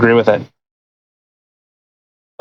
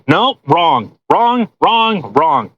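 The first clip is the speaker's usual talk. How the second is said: emphatic denial; much slower than usual. Real, not acted. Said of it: "Do I have to do it again?".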